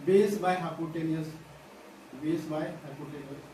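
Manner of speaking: very slow, word by word, as if dictating; slow teacher dictation. Shown as a demonstration. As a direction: spell it out slowly so students can write. Teacher dictating formula to students.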